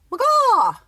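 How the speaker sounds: "Maga!" said high and loud, falling at the end; exclaiming "Maga!" with a high falling tune; trying a pronunciation. Shown as a demonstration. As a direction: try "Maga!" with a confident drop. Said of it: "Is that right?".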